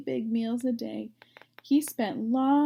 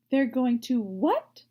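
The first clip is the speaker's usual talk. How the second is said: shocked scream; 5 dB louder than usual. Acted. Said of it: "screamed Wilbur".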